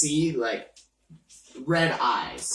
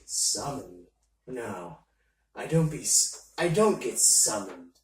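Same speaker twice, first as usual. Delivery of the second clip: mysterious entity voice; 4 semitones lower than usual. Acted.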